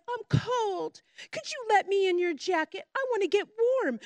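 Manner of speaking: lightly voiced sly snake; wheedling snake. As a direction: beg sweetly to be let in. Snake begs woman in story.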